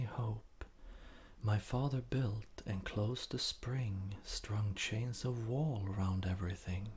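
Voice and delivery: measured, lightly projected poem reading; understated recital voice, line by line; poetry recitation. Acted. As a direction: read the verse aloud in even, rhythmic lines.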